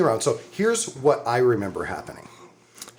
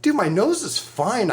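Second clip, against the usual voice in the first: mock casual; 9 semitones higher than usual. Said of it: "I'm like".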